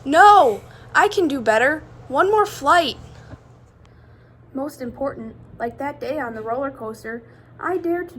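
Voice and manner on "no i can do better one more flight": louder, eager protest; loud eager child's protest; eager pleading. Acted. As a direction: beg for one more go. Amelia pleads to continue.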